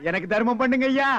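long pleading ஐயா at the end; mock beggar plea stretching ஐயா; beggar's whine. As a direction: beg with a sing-song drag on ஐயா. Poses as beggar asking alms.

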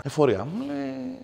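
outraged reveal. Real, not acted. Outraged reveal of tax office.

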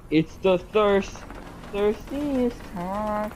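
ad voice. Retold or imitated. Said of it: "LeBron James commercial".

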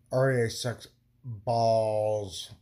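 each letter spat out slowly, fed up; slow angry emphasis. Real, not acted. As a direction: drag out R E I in real annoyance. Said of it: "I'm so pissed off".

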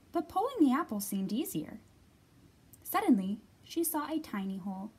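put-on lively read-aloud for young children; clear, projected picture-book reading; story narration. A narrator's reading.

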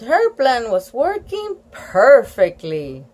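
put-on lively children's story reading; story read-aloud. A narrator's reading. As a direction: read it to children, lifting the characters' lines.

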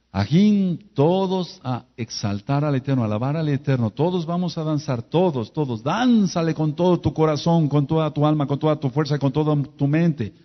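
preacher calling everyone to dance, loud and high; rousing call to dance. Retold or imitated. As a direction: whip them up to dance with everything. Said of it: "Por eso yo me bajo y digo".

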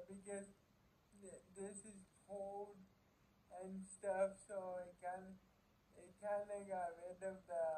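food held between teeth; speaking around snack at lips; talking while biting food. Real, not acted.

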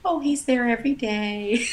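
unfazed, matter-of-fact reply; mildly imitating an unbothered neighbor; calm neighbor. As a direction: shrug it off calmly. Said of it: "very calmly, my neighbor says".

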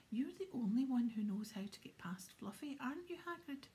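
mildly anxious question, rising high at the end; a touch of worry in the question. Acted. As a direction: ask worriedly, hoping he'll say yes. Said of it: "said Harry anxiously".

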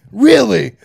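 incredulous shout. Retold or imitated. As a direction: yell it at the guard in disbelief. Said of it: "confronting guard".

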